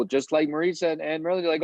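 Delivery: ordinary talk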